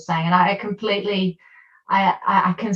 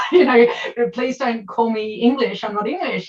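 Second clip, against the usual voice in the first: real emotion breaking through; crying out; 5 semitones higher than usual. Real, not acted. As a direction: plead through tears. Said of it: "I get very emotional".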